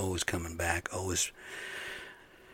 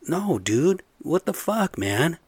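loud, much higher exasperated yell; angry yelling; 8 semitones higher, 3 dB louder, slower than usual. Retold or imitated. Answering the electrician's sorry, loud angry yell. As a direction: push back hard, pitch spiking. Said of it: "I'm like".

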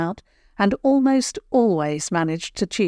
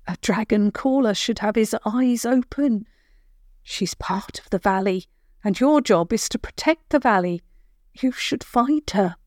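stern granny; 4 semitones higher than usual. Acted. Granny voiced in story.

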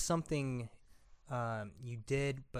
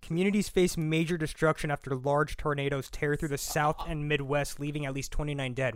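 mock news read; 6 dB louder than usual. Host springing grim news on his co-host, mock newscast. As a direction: read the headline like an anchor. Reads another headline.

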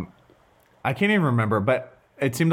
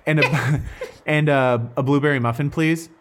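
pleasant drive-thru ordering voice; 4 semitones higher than usual. Pretend. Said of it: "I have a great drive-through voice".

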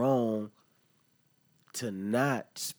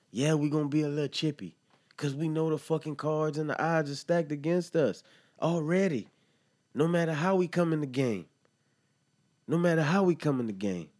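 higher and louder, worked up and frustrated; heated venting; 7 semitones higher, 4 dB louder than usual. Real, not acted. Podcaster ranting to listeners about the odds, heated and raised. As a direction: let the frustration climb as you rant.

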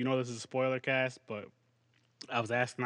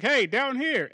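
lightly voiced dog, higher and louder; a mild raised call to get attention; 9 semitones higher, 5 dB louder, slower than usual. Dog calls to the woman looking around, lightly called out.

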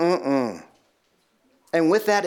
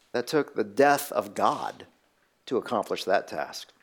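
solemn and hushed; 9 semitones lower, 6 dB quieter than usual. Real, not acted. Solemn point about the cross.

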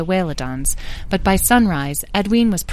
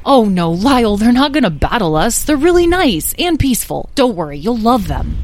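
brisk motherly reassurance, raised and lively; reassuring; 5 semitones higher, 5 dB louder than usual. Acted. Beatrice calms nervous Lyle about the mermaids, reassuring. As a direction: talk a nervous child out of worrying.

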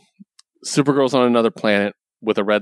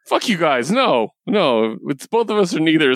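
higher-pitched mock indignation; retold indignant refusal; 6 semitones higher than usual. Blue Beetle turning down the Justice League, retold with mild indignation. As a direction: refuse on a friend's behalf, voice lifted. Retelling hero's refusal to join.

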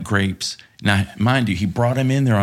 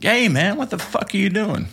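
startled yell; 12 semitones higher than usual. Retold or imitated. Startled by spray at urinal.

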